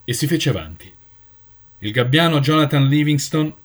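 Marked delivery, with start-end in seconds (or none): 1.8-3.5 a hint of a solemn elder announcing a name; proclaiming elder. Elder names the accused before the flock, solemnly. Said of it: "l'anziano proclamò".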